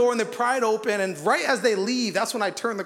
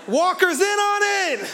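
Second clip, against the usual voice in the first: much higher, slow, laughing alarm; hammed-up panic that it's a setup; comic fearful cry, pitched way up; mock panic; 10 semitones higher, 4 dB louder, slower than usual. Retold panicked suspicion.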